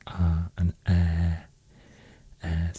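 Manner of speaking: A as open "ah", Ä as open "eh"; open vowel demo. Shown as a demonstration. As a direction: sound out A and Ä as distinct open vowels. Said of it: "developed into more open sound".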